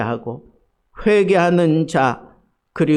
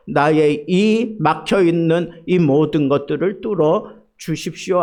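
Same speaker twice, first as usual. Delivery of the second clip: 조급한 기도; 4 semitones higher, 3 dB louder than usual. Retold or imitated. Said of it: "막 조급해지는 거예요".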